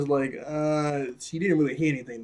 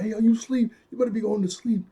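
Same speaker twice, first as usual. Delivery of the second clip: high, raised-voice mock yell; retold yell; 8 semitones higher, 3 dB louder, faster than usual. Reviewer replaying Jim's bedtime yell, mock yelling. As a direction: imitate yelling at kids to get to sleep. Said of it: "'cause he yelled".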